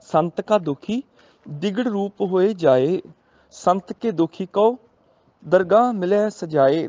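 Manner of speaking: slow, measured scripture recital; gurbani recitation. Shown as a demonstration. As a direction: draw each word out reverently. Recites gurbani line slowly. (ਹੌਲੀ ਪਾਠ ਦੀ ਲੈਅ)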